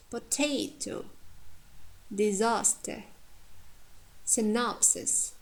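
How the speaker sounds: careful "potato, disaster, synopsis", stressing "ta", "sas", "nop"; weight the middle syllable of "potato", "disaster", "synopsis"; teacher's examples "potato, disaster, synopsis", each strong in the middle; stress on penultimate. Shown as a demonstration. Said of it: "Penultimate syllable stressed".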